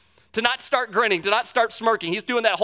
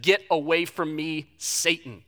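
stern Jesus; 4 semitones lower, slower than usual. Retold or imitated. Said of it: "Jesus turned to Peter and he said".

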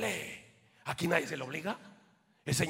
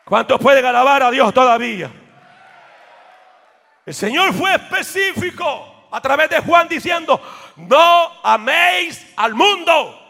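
building, louder chanted refrain; preaching at full force; 4 semitones higher, 15 dB louder than usual. Acted. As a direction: let each line climb to a cry. Rising sermon climax. (predicación in crescendo)

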